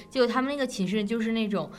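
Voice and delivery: normal talking voice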